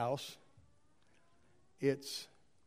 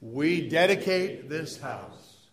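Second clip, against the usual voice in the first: slow, deliberate unison response; recited with gusto; 5 dB louder, much slower than usual. Acted. Congregation responds during the church dedication, with gusto. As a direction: recite it together, word by drawn-out word. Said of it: "say it with gusto".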